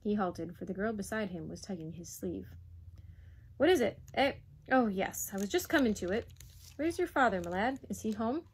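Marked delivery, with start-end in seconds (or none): 3.6-8.4 lightly voiced imperious questioner; blustering Duke. Duke asks the lad after his father, blustering.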